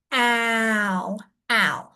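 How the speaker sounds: ow said as the short a of cat; short a sound. Shown as a demonstration. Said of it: "The short sound for that vowel is a".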